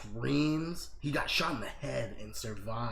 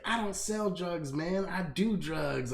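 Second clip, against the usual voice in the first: higher, drawn-out mock protest; imitated freaking out; 4 semitones higher, slower than usual. Retelling an arrested man's protest to cops, mildly freaking out. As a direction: plead your innocence, slow and mildly worked up. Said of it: "he's, like, freaking out and shit".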